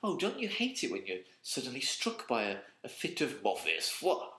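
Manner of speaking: English sliding into a put-on French tone; French affectation. Mocking wanky speakers who drop French words in, French affectation. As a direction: lapse into mock-French mannerism on the last words. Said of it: "adopt a kind of French mannerism and a French tone".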